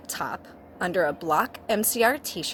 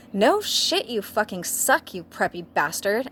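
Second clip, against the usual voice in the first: angry outburst; 2 semitones higher than usual. Acted. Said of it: "said Willow".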